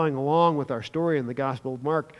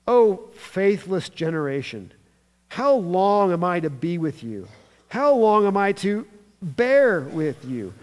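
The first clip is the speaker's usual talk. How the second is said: mildly exasperated, stressing the long wait; 3 semitones higher, 5 dB louder than usual. Acted. Jesus rebuking a faithless generation, exasperated. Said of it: "That's what you call an exasperation".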